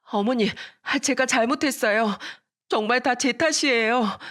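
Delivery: 높은 목소리로 애원하며 사과; 무릎 꿇고 두 손 비비며 사과; 울며 비는 며느리. Retold or imitated. 며느리가 울며 빎. (며느리가 시어머니에게 울먹이며 빎)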